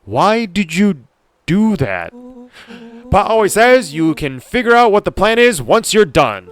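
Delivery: high, loud, hammed-up character voice; excitable game character. Friend defending a reckless fence stunt, loud and insistent. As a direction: play an over-keen friend justifying a reckless act.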